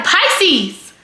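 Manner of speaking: half-voiced holler, cut off mid-word; retold yell. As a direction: call out a name in mock outrage. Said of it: "I yelled, I was like".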